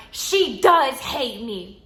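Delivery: slow, mock-tearful insistence; imitating crying client. Client sobbing to the stylists, mimicked slow and tearful. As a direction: drag it out like a weepy, wounded woman.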